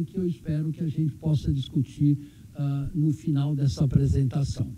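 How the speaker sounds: numb mouth after surgery; talking with an anesthetized mouth; numb from the dentist. Real, not acted. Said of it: "ainda tô com o efeito da anestesia". (boca dormente da anestesia)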